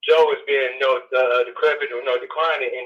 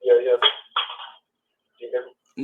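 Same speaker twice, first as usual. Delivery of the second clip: distant caller on speakerphone; 5 semitones lower than usual. Real, not acted. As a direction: sound far from the phone. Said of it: "I think you might be on speaker".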